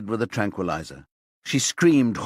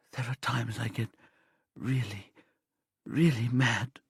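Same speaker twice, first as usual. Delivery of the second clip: whispered; 5 dB quieter than usual. A narrator's reading. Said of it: "she whispers as she covers her face".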